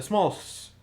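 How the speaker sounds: stumbling over the word; tongue slip. Real, not acted. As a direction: trip over the words mid-sentence. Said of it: "tongue didn't wanna work there".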